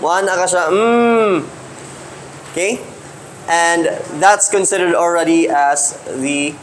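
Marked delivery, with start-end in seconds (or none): 0.7-1.4 long, slightly raised "mmm"; sleeper's hum. Shown as a demonstration. Classmate sleeping next to you, long sleepy hum. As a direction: hum one drawn-out mmm. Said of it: "pag matuyog".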